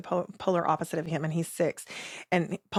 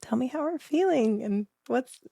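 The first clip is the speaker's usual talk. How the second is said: a lightly played, higher, soothing mom voice; gentle parenting voice; 6 semitones higher than usual. Mom calming her fighting kids, lightly played gentle higher voice. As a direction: coax the kid gently, pitched up. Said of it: "I do the gentle parenting where I'm like".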